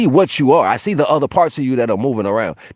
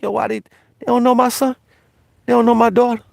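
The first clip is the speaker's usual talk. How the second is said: much higher, whining mock complaint; high mocking whine; mock whiny voice; 14 semitones higher than usual. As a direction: mimic a fussy outsider in a high whine. Mocking what judgers say.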